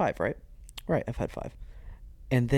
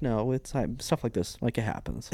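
playing it cool; 5 dB quieter than usual. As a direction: shrug it off while hiding the nerves. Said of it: "I'm playing it cool".

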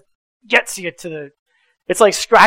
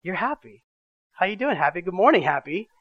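put-on softer, gentle morning greeting to a toddler; tender greeting; 5 dB quieter than usual. Father greeting his calm foster daughter, soft and tender. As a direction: coo it softly to a calm child.

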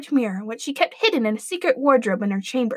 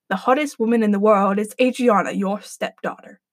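lower, solemn magic mirror; lower, grave mirror voice; deep mirror voice; 4 semitones lower than usual. Acted. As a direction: speak like an enchanted mirror. Mirror answers the queen.

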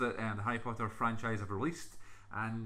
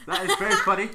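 high, loud laughing; 9 dB louder than usual. Real, not acted. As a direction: crack up mid-sentence. Mock reaction, laughing.

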